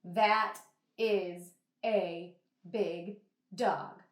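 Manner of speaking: flat, unexcited reading; flat and bored. Shown as a demonstration. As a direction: say it like it's nothing special. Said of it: "I would not say it like that".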